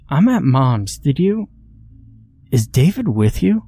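high, anxious questioning; urgent. Acted. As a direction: press her anxiously. Frantic call to sister.

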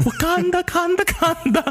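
very high, silly mock chant; hammed-up squeal. Host breaking down in the impression, silly high chant. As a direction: let the put-on accent soar into falsetto.

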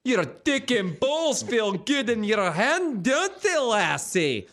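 high coaxing Scottish voice; mock dirty talk. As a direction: purr it up high to yourself. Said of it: "it sounded like this".

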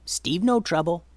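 simple goblin voice, unruffled; mild-mannered little creature; calm goblin. Acted. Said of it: "he said calmly".

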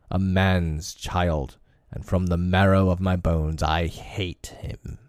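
lightly voiced scornful tiger; tiger villain. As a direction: sneer it like a tiger. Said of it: "Shere Khan roared".

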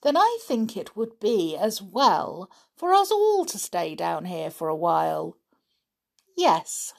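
a hint of a smug kidnapper; villain voice. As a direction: gloat over the prisoners with mild menace. Villain threatens the captured children.

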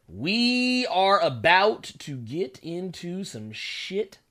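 stretched slow and deliberate; slow drawn-out. Shown as a demonstration. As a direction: drag every word out. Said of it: "repeats line slowly".

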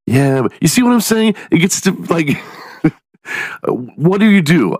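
wife's voice. Retold or imitated. Wife voiced, pitched way up.

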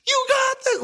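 high cheering crowd yell; crowd roar. Retold or imitated. Crowd cheering the bloody hero, high roaring yell. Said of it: "it's a full on roar".

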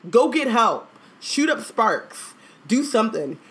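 high-pitched, emphatic orders to a useless helper; exasperated urging. Real, not acted. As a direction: urge them on in disbelief. Exasperated urging at story character.

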